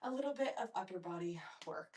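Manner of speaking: breathless from the workout; winded, talking between breaths. Real, not acted. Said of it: "I'm out of breath, you guys".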